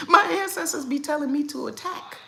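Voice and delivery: high, loud read-out through laughter; laughing quote. Real, not acted. Streamer reading out a viewer's comment, laughing.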